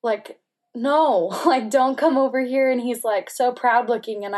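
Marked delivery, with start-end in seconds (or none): 0.7-2.7 louder, raised retold plea; urgent protest, retold; distressed refusal. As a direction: relive pushing someone away in distress. Refusing to let husband come over.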